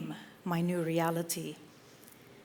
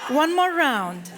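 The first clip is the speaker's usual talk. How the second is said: said through a laugh, louder and higher; giggly, higher shout for one more go; 6 semitones higher, 6 dB louder than usual. Real, not acted. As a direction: call out another round while laughing. Laughing between sung rounds.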